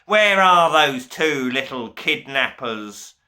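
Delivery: yelling. A narrator's reading. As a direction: bellow it across the corridor. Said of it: "he yelled".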